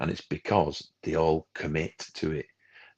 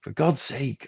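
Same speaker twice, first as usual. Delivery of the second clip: exasperated outburst, pitched way up; retold scream; 9 semitones higher than usual. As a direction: act out snapping at a phone user. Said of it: "I just screamed".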